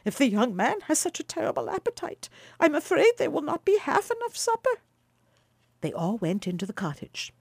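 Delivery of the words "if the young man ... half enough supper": higher, fretful aside to her husband; worried old wife aside. Acted. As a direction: fret secretly about the supper. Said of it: "whispered Baucis to her husband".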